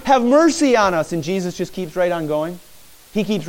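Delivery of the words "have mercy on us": raised, higher-pitched plea; imitated yelling. Blind men crying after Jesus for mercy, imitated yelling. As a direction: call it out like a mild mock scream. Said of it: "as they cry and scream".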